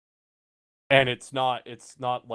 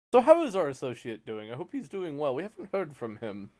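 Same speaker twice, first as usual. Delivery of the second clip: concerned salesman, pitched up; salesman in character; 5 semitones higher than usual. Acted. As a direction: politely ask after a missing associate.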